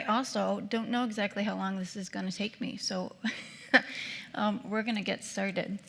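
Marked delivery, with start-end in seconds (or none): 3.2-4.3 short nervous chuckle; nervous laugh. Real, not acted. Speaker unsure of her timing, short nervous laugh. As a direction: let out a brief laugh.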